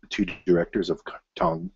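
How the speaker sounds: rushed, tripping over the names; speaking too fast. Real, not acted. Vlogger rushing through news, too fast. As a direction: hurry the words until they blur. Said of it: "I'm speaking too fast".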